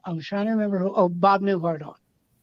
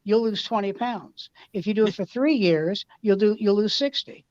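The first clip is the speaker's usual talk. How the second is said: deadpan Newhart; 2 semitones higher than usual. Retold or imitated. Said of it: "And Bob said".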